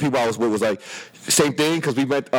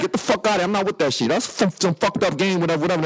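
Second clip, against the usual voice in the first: higher-pitched indignant dismissal; acting out a rant, not really shouting; telling her off; 6 semitones higher than usual. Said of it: "I told her off".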